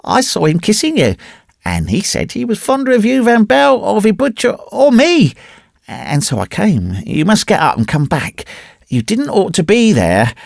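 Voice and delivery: put-on high-pitched child's voice, disconsolate; upset little boy. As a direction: plead like a distressed small boy.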